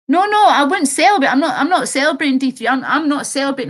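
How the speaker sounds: high-pitched, emphatic denial; real insistent protest. Real, not acted. Streamer correcting viewer's claim about celebrating, insistent protest.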